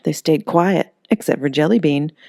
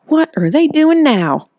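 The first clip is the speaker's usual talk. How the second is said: much higher, slow, fed up; exasperated Holly; 12 semitones higher, 5 dB louder, slower than usual. Acted. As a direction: groan at the monsters. Holly hears another crash.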